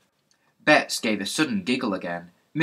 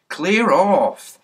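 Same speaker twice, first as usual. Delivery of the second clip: much louder, higher shout to clear off; angry shout; 8 semitones higher, 9 dB louder than usual. Acted. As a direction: bellow it at the boy, fed up. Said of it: "said Mister Goon".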